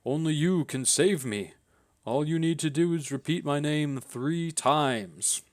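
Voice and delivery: ghost voice. Acted. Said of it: "says the ghost".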